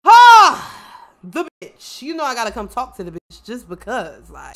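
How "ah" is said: sudden high, very loud "ah"; loud cry. Real, not acted. Player reacting to the woman of the hour, loud excited cry. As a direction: burst out with a high "ah!".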